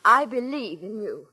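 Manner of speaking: slow sincere reassurance. Acted. Repeats it on request.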